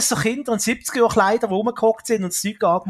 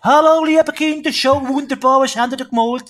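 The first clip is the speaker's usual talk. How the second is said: put-on high, loud cheerful children's TV host; kids show host; 4 semitones higher, 5 dB louder than usual. Imitates kids show host greeting.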